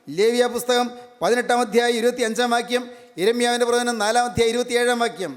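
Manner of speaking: high, sustained preaching voice; declamatory sermon delivery. Real, not acted. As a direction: proclaim it phrase by phrase to a congregation. Preacher proclaims to congregation.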